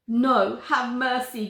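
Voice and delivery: loud, pleading cry; begging. Acted. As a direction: beg for mercy on your knees. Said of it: "begs the monster down on his knees".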